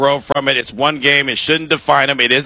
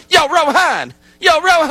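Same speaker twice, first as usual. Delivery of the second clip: high, loud calling out "Yo, Rohan!"; mock New Jersey call; 12 semitones higher, 3 dB louder than usual. Joking with co-host, calling out like a New Jersey guy. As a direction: holler across the street like a Jersey guy. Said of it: "I sound like I'm from New Jersey".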